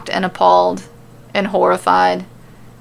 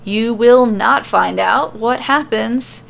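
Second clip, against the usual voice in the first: playful outro; 5 semitones higher, 4 dB louder, slower than usual. Real, not acted. Host teasing next chapter.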